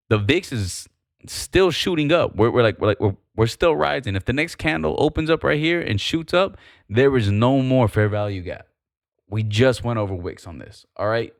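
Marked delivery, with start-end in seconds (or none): 0.1-8.7 too much caffeine. Real, not acted. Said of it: "I'm just a little wired right now".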